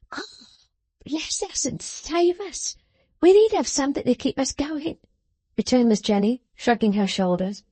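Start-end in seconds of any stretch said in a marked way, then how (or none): 0.1-5.0 high, sharp scolding voice; scolding little woman. A narrator's reading. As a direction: scold him like a child. Jenny's voice.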